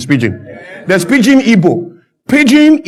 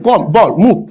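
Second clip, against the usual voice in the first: imitating a Dutch coach at training; bare one-word orders, lightly mimicked; Clemens Westhoff; slower than usual. Coach training his players, lightly imitated broken English. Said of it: "that's how he talks".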